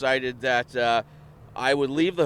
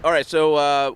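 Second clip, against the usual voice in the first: talking around a lozenge; sucking a lozenge; 3 dB louder, slower than usual. Real, not acted. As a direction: lozenge tucked in the cheek. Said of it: "Is that a lozenge in your mouth?".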